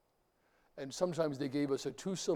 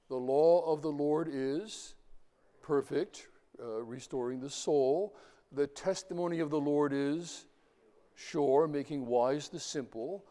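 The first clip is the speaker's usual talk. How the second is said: measured psalm reading, slightly raised voice; scripture recitation; 2 semitones higher, 5 dB louder than usual. Acted. Lecturer quoting a Psalm to show repetition, measured recitation. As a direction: recite the verse in balanced phrases, pausing before key words.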